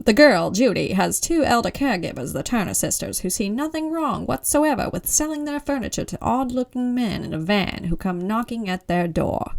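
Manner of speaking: put-on old-time radio announcer read; 1930s radio announcer. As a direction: read it like a thirties newsreel. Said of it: "I can't do this whole thing like that, but I, I mean, I can try".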